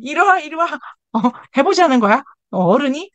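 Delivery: hammed-up furious adult scolding another adult; mock angry confrontation. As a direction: call them over like you're about to fight. Acted fury at adult who overslept.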